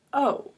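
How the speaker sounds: "O" said alone, as the letter's name; long O. Shown as a demonstration. Teacher isolating the vowel for pupils, "O" as a long vowel. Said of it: "it's gonna say its name".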